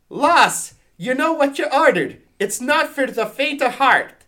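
high, loud mock-Scottish warning; put-on Scottish accent. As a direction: warn her in a hammed-up Scottish accent.

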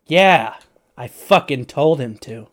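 furious hermit shouting back; angry retort. Acted. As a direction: snap back at the joking player. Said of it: "He goes".

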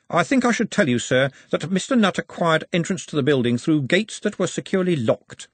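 a servant reporting with disdain; secretary character. A narrator's reading. Drumknot speaks.

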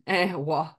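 imitating how Geordies say "what"; mock Geordie "what"; Geordie-style "what". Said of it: "as they do".

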